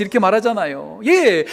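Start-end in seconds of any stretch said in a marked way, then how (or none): none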